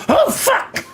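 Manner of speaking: very high-pitched yelp of fright; mock startled scream. Haunted house visitor reacting to the monster, mock scream. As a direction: shriek it like a jump-scare victim, hammed up. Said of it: "And then they go".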